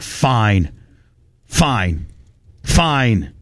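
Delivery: falling, drawn-out "fine", spaced by pauses; resigned, weary concession; grudging surrender. Retold or imitated. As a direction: give in reluctantly, one word at a time. Retold grudging surrender to caller.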